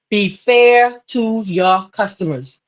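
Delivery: slow, leaning on "fair"; stress on fair. Shown as a demonstration. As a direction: drag out "fair" to make the point.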